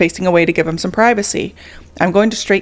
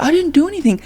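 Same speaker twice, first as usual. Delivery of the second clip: whiny denial; 8 semitones higher, faster than usual. Retold or imitated. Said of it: "He was like".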